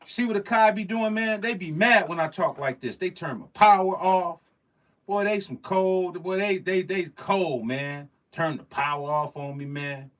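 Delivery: mock outraged rant. Real, not acted. Streamer joking Akai cut his power, loud mock outrage. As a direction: rant in fake outrage at the company.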